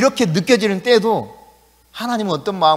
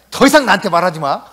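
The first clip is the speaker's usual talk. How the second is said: a laughing, slightly louder brush-off; everyday retort, laughing; 4 dB louder than usual. Retold or imitated. A person brushing someone off, half laughing. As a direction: toss it off with a chuckle like people do. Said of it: "우리 그러잖아".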